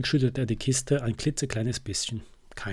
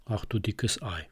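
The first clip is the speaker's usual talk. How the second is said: lower, softer mild grumble; a hint of a rumbling bear; bear's grumble; 3 semitones lower, 6 dB quieter than usual. Bear Eddie caught out by the surprise, soft low grumble. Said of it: "brummt Eddie Bär".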